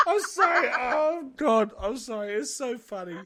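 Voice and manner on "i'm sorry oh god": laughing. Real, not acted. Still laughing, apologizing.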